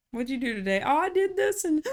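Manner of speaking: acting out gasping through small talk; imitating breathless talk. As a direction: play someone who can't catch their breath. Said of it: "I'd be talking and running out of breath".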